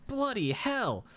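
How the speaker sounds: high, slow, shocked exclamation; startled outburst. Acted. Scholar dropping the freezing stone, high startled outcry. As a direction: jolt back in alarm. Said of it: "drops it and goes".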